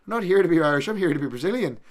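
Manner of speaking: loud, high imitation of a fighter's boast; mock shouted declaration. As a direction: belt it out as a hammed-up proclamation.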